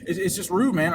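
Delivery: hesitant, repeated false starts; mock stuttering. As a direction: imitate a flustered man stumbling over words. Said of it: "Now he's stuttering and shit".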